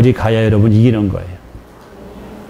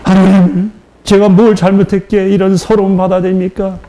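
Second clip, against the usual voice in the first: higher, pleading cry to God; lament, voice raised and wounded; tearful prayer; 6 semitones higher than usual. Retold or imitated. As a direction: plead through tears with God. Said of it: "흐느껴 울면서".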